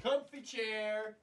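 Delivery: sleepy murmur. Acted. Sleepy comfy chair.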